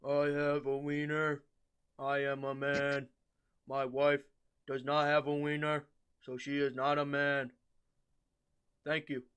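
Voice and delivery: a hint of a pompous speech; lightly voiced Trump. Lightly voiced Trump speech. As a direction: lightly do the politician's blunt speech. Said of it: "And Trump was like".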